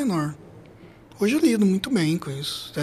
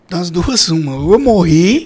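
laughing; 9 dB louder, slower than usual. Retold or imitated. Laughing at thinking he'd died.

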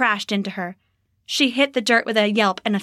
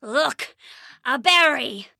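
coaxing goblin; 3 semitones higher, slower than usual. Acted. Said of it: "the goblin said".

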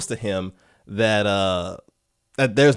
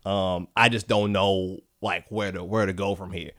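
defeated mumble; 5 semitones lower, 6 dB quieter than usual. Retold or imitated. Defeated writer confesses.

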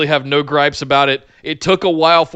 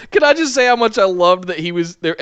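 laughing delight; 5 semitones higher than usual. Real, not acted. Laughing delight at fax gag.

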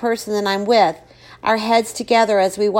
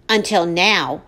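sarcastic; slower than usual. Acted. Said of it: "I finish sarcastically".

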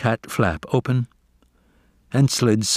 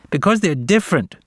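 put-on sneering young cat; 8 semitones higher, faster than usual. A narrator's reading. Jay taunting.

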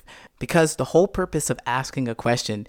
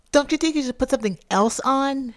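higher, lightly voiced nagging partner; mock partner voice; 10 semitones higher than usual. Partner pushing him to change clothes, mock high voice. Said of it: "And then they say".

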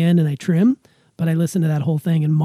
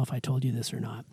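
whispered confession; 7 semitones lower, 14 dB quieter, faster than usual. Real, not acted. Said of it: "gonna admit this for the first time".

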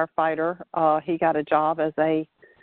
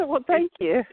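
higher-pitched, amused thank-you through a laugh; 7 semitones higher than usual. Real, not acted. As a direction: chuckle as you thank them. Laughs at the host's joking nickname.

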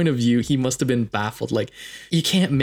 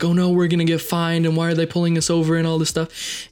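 mock panic; 5 semitones higher than usual. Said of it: "she just started freaking out now".

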